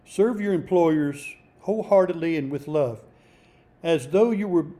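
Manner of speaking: measured, declaimed Bible reading; emphatic scripture reading. Real, not acted. Preacher reading a passage for employees, emphatic scripture reading. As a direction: read it out firmly, leaning on key words. Reads scripture aloud to listeners.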